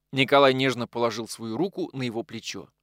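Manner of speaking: usual speaking voice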